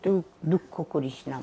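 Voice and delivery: soft, fatherly reassurance; low-key, tender retelling; retold gentle consoling. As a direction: quietly comfort someone who is hurt. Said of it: "বলে আমার মাথায় হাত দিয়ে".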